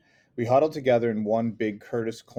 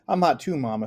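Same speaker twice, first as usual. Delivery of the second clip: yelling; 4 semitones higher, 4 dB louder than usual. Acted. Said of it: "Celia yelled".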